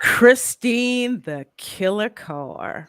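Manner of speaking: slow announcer voice for the reveal. Pretend. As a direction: drag it out like a ring announcer. Announcing new member dramatically.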